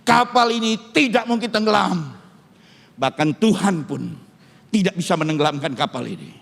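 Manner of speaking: mildly haughty quoted boast; arrogant boast. Retold or imitated. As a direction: imitate a proud shipowner's certainty. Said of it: "dengan arogannya berkata".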